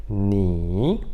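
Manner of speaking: "ni" grave e alongado, desce e sobe; terceiro tom. Shown as a demonstration. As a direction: diga "ni" devagar, descendo e depois subindo. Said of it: "ele desce e sobe". ("ni" arrastado, com o tom descendo e subindo)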